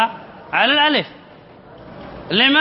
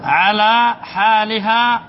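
slow, drawn-out emphasis; much slower than usual. Shown as a demonstration. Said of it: "ما معنى لا يؤثر".

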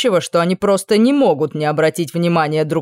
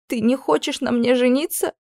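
higher, startled disbelief; astonished question; 6 semitones higher than usual. Acted. Princess amazed the prince doesn't want her, astonished question. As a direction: stop crying in sudden amazement. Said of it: "изумилась я".

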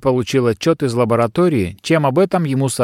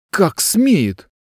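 roaring grunting brute; 7 semitones higher than usual. A narrator's reading. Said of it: "взревел юноша".

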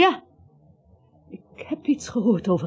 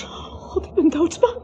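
bang; 9 semitones higher, slower than usual. Acted. Gina is bang.

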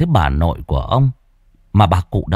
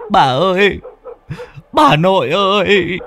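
calling out; 11 semitones higher than usual. A narrator's reading. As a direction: call out to the fading figure. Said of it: "Ông Cạc kêu lên".

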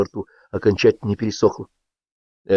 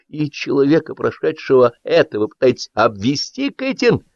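heated reproach; 7 semitones higher than usual. A narrator's reading. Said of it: "продолжал он с обострением".

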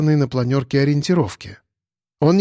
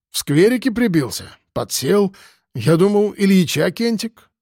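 higher, puzzled boozer voice; lightly voiced drunk; 6 semitones higher than usual. Piston tells the cop about the stranger, puzzled. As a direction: shrug it off, baffled.

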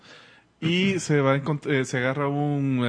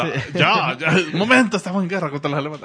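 loud; 4 semitones higher, 7 dB louder, faster than usual. Pretend. Playing the disguised villain.

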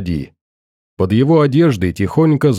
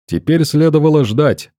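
ordinary delivery, nothing marked

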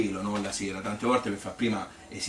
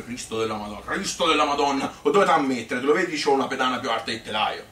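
imitating the big-voiced owner, louder and a bit higher; mock booming boss; 3 semitones higher, 5 dB louder than usual. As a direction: play the gruff boss scolding the small girl. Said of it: "con questo vocione".

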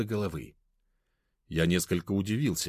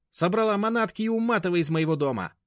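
high, loud command; high-pitched commanding eviction; furious order; 12 semitones higher, 4 dB louder than usual. A narrator's reading. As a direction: throw her out of the house. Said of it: "заявила бабушка".

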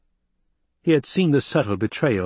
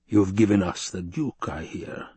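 Baron voice; 2 semitones lower than usual. Acted. Baron questions the doctor.

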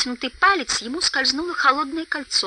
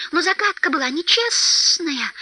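high, slow creature voice; Gollum's protest; 6 semitones higher than usual. A narrator's reading. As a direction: protest in a high, drawn-out whine. Голлум возражает в споре о загадках. (высокий протяжный голос Голлума)

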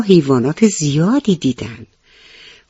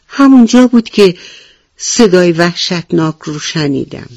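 alarmed rabbit; 2 semitones higher than usual. Acted. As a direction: point out the spot in fright. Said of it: "خرگوش گفت". (خرگوش هراسان)

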